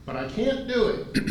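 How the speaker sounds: high-pitched impression of an oilman refusing; high, drawn-out mimicry; Mike. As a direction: put on his high voice, stretching out the refusal. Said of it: "That sounds like Mike".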